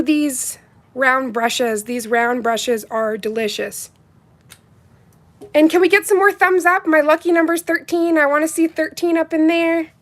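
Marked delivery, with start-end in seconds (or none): 5.5-9.9 hyping the chat. Real, not acted. Hyping viewers for thumbs up.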